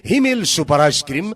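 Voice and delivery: chipper 1950s ad. Acted. Mic promo read.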